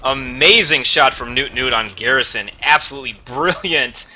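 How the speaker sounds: excited. Real, not acted. Hyping the highlight play.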